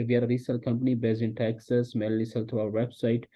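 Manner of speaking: slow, clear company pitch; teacher modelling the company description, slowly; slow pitch demo. Shown as a demonstration. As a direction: lay out the pitch slowly for copying. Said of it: "फिर आपने उसको थोड़ा सा ज़्यादा बताना है कि".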